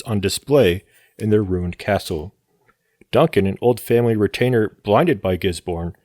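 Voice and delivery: measured read-aloud plot summary; synopsis narration. Acted. Podcast host reads the film's plot to listeners, narration. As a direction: read it out like a film recap, pausing between sentences.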